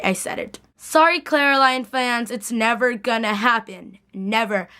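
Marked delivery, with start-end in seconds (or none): 2.3-4.7 "never" slow and falling, then "Never" again as a firm final word; stress on never. Real, not acted. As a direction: lean on "never" like a promise. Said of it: "Mark my words".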